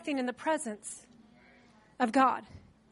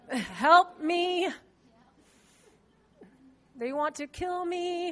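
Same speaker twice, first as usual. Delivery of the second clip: hushed plea; 5 dB quieter, much slower than usual. Retold or imitated. David's desperate cry voiced.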